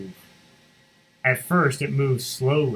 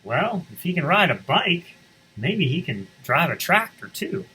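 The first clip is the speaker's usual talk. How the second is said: a touch of doubtful animals; 5 semitones higher than usual. Acted. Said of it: "they all said".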